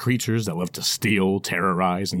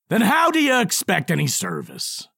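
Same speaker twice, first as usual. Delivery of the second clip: mocking dwarf; 10 semitones higher than usual. Dwarf character voice.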